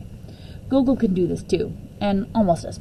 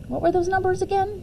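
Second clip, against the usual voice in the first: grandma's question; 11 semitones higher than usual. Retold or imitated. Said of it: "she asked".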